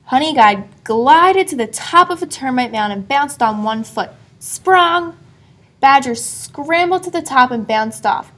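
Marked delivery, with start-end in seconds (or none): 4.4-5.2 high, springy exclamation; bouncy sound word. A narrator's reading.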